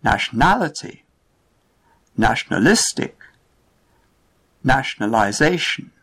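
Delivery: nationALity, nationaLIStic, nationaliZAtion, stress moved late; stress shift demo. Shown as a demonstration. Teacher showing learners shifting stress, stressed late. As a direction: push the stress toward the end. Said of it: "listen to the words in the family".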